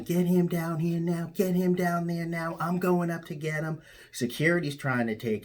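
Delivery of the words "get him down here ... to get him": shrill retold tantrum, pitched way up; mock screaming. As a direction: imitate her shrieking demand. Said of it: "she's screaming and yelling".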